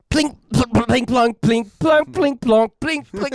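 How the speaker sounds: high, sung-out plinking notes; imitated guitar plinks. Mocking Nick's bad guitar playing to friends, high plinks. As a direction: mimic a clumsy guitar, note by note. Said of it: "it was just like".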